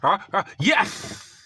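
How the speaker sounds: slow, drawn-out mock moaning; hammed-up bedroom moan; imitating her moan. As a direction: moan it out slowly like she did. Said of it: "she'd be like".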